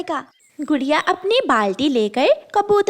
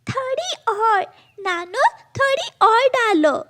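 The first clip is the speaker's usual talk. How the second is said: eager; 11 semitones higher than usual. Acted. Girl eager for more chili.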